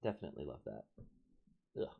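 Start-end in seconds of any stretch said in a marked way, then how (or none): 1.8-1.9 disgusted ugh. Real, not acted. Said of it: "fly in my mouth".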